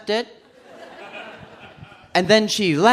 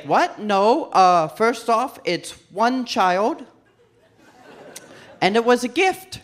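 higher, slow defensive protest; mock indignation; 4 semitones higher, slower than usual. Accused of stealing children, indignant slow self-defence. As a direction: protest innocence, spelling it out slowly.

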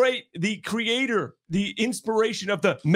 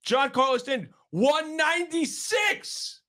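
exasperated; 6 semitones higher than usual. Real, not acted. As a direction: drag out each number in disgust. Reading awful batting averages.

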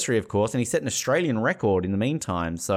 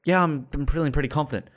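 mock-modest, quick polite reply; matter-of-fact interviewee; 5 semitones higher, faster than usual. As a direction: play the unexcitable athlete. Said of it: "so polite and just matter of fact".

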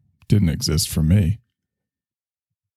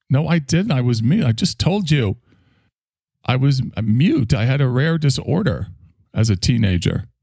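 mock indignant; 4 semitones higher than usual. Arguing with the column.

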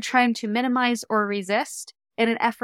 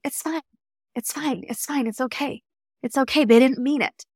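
brushing it off with a smile; 3 semitones higher than usual. Retold or imitated. Client telling her coach a serious event doesn't matter, smiling and dismissive. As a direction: wave it away lightly, insisting it's nothing. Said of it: "telling it with a smile on their face".

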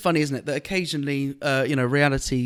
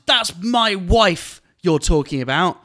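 slow, louder indignant shout; retold angry shout; 4 semitones higher, 5 dB louder, much slower than usual. Heckler shouts at comedian about his wife, slow and loud. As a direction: bellow it like an offended husband. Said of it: "And he shouted".

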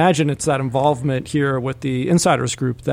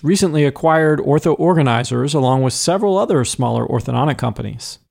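bright announcer welcome back; podcast host intro. Acted. Host welcoming listeners back with a bright announcer read. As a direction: open the segment like radio.

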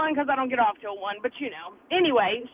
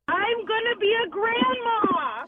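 emotional; 7 semitones higher, slower than usual. Real, not acted. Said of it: "Are you crying?".

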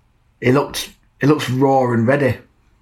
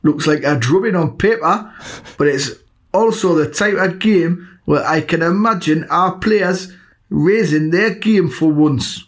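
put-on Geordie accent; 4 semitones higher, slower than usual. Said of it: "you've been crying out to do a North East accent".

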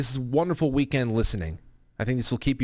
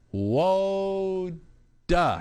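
put-on toddler copying Yoda; 8 semitones higher than usual. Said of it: "And she went".

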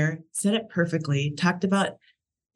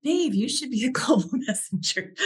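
coworker's suggestion; 8 semitones higher than usual. Retold or imitated. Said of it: "one of my coworkers would say".

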